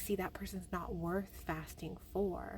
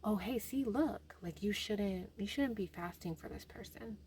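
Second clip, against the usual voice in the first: tempting devil voice; 2 semitones higher than usual. Retold or imitated. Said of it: "The devil was using these other people to get to me".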